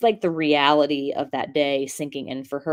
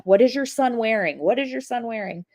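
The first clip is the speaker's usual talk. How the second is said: lightly imitated deputy, raised pitch; deputy questioning; 6 semitones higher than usual. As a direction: echo the deputy's insistent repeated question. Deputy's repeated question acted out.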